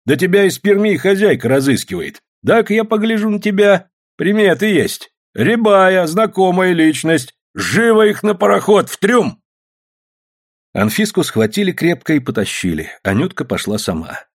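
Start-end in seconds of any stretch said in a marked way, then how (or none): 0.1-9.4 higher, louder bossy police sergeant; gloating sergeant. A narrator's reading. Sergeant ordering the women dragged to the ship, gloating. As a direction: lord it over the arrested woman.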